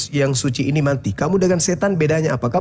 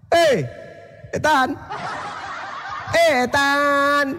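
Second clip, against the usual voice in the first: laughing taunt; 8 semitones higher, 3 dB quieter than usual. Real, not acted. Taunting opponent, calling him Setan.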